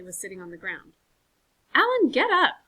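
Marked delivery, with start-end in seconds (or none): 1.7-2.6 much higher, loud command; sharp order. Acted. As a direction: bark it at him. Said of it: "Marley ordered".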